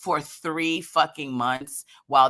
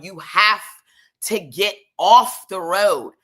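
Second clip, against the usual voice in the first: loud, slow command, word by word; exasperated, drawn-out order; emphatic order; 3 semitones higher, 7 dB louder, slower than usual. Acted. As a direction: spell it out forcefully for the driver. Acted order to the driver.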